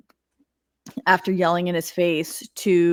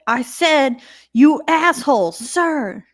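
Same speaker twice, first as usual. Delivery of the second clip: louder and higher, defiant; defiant repeat; 7 semitones higher, 5 dB louder, slower than usual. Retold or imitated. De Silva doubling down to the colonel, loud and defiant. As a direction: throw it right back at him. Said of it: "And she said".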